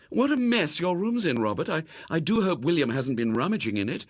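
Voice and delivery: high, fussy mother's voice; a mother tutting at the mess; fussing mother. Acted.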